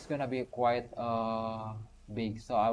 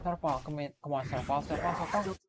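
pleading call; 5 semitones higher than usual. Real, not acted. Urging the game character on.

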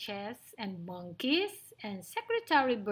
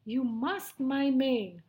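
mild roar; 2 semitones higher than usual. Acted. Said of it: "roared the lion".

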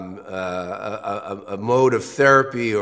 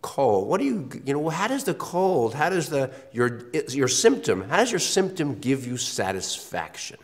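probing analyst; 4 semitones higher than usual. Retold or imitated. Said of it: "the psychoanalyst question is".

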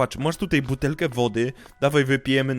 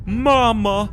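excited cry; 6 semitones higher than usual. Real, not acted. Spotting SpongeBob's mum in game.

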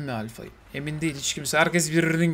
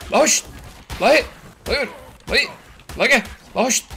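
calling out; 6 semitones higher, faster than usual. Real, not acted. Calling out to an animal.

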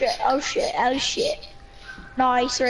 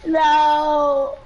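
panicking gamer; 2 semitones higher, much slower than usual. Real, not acted. Team about to die.

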